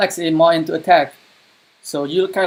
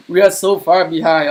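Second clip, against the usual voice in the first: exasperated outburst; 3 semitones higher, 6 dB louder than usual. Real, not acted. Shocked at falling behind in game.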